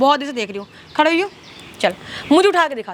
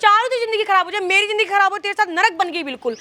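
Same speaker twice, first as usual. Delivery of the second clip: angry outburst; 3 semitones higher than usual. Acted. Wife lashes out in quarrel.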